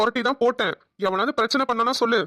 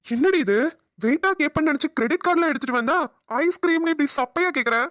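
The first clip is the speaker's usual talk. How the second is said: higher-pitched, teasing disbelief; pitched-up mock complaint; incredulous protest; 5 semitones higher than usual. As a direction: protest as if let down by a tiny request. Mock protest at her small request.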